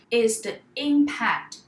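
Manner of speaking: slow, weighty stress on impact; emphatic, slow. Shown as a demonstration. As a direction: lean hard on "impact". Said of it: "I cannot emphasize this question more".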